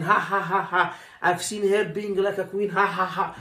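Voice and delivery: imitating a colleague's mocking laugh; mock laughter. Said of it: "your colleague is laughing".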